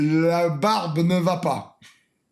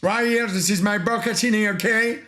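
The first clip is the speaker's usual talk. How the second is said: put-on lost Italian accent. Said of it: "J'ai perdu mon accent italien".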